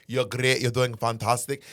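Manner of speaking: lightly attempted Scottish accent; a hint of his Scottish mom; Scottish mother. Friend praising him as mother would, mild Scottish accent. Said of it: "as your mother would say".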